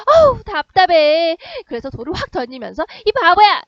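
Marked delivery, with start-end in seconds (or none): 0.1-1.4 loud, slow, higher exasperated outburst; exasperated groan. Retold or imitated. Girl voiced, exasperated. 3.0-3.6 high, loud playful taunt; girl shouting teasingly. Retold or imitated. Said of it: "이렇게 한 거예요".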